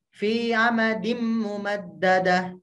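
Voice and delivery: Fi amadim mumaddadah said without holding the nasal m; wrong ghunnah. Shown as a demonstration. Teacher repeats the wrong reading for the mother. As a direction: skip the hum on the m. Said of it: "Jangan Ibu bacanya gini".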